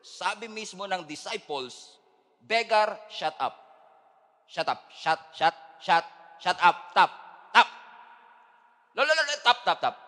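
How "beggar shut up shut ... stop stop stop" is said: loud, impatient shut up; angry hush. Acted. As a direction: silence the beggar harshly. Disciples silencing the beggar.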